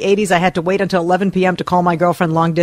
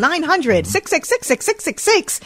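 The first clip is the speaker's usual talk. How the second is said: late-night ad voice; 7 semitones higher than usual. Retold or imitated. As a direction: pitch it like a late-night phone-line ad. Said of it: "those late night commercials where it was like".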